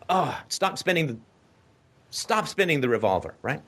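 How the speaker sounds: ordinary talk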